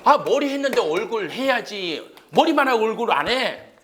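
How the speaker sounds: loud, high mock indignation; mock scolding insistence. Teacher mock-scolding to make memory link.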